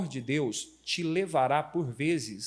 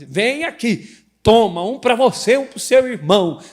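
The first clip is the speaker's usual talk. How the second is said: slow, loud stern orders; slow, loud stern mother handing out candy; angry mom; 6 semitones higher, 12 dB louder than usual. Retold or imitated. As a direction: scold slowly and loudly. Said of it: "quando tá brava, diz".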